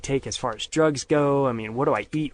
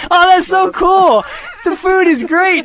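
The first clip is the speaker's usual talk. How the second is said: much higher, louder and slow, sing-song; gushing parents; 10 dB louder, slower than usual. Retold or imitated. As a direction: coo it like delighted, clueless parents. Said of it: "And they were like".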